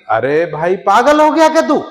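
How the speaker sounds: God shouting in disbelief at the dead man; shouting at him. Acted. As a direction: bellow it out in disbelief. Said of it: "भगवान बोले जोर से चिल्ला के".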